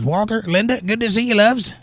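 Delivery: high, jittery Chicago voice, pitched well up; scared Chicagoan. Retold or imitated. Host reading April's chat greeting in a high scared Chicagoan voice. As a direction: read it like a nervous guy from Chicago. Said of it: "I don't know why I have that voice going on. Like a scared Chicagoan".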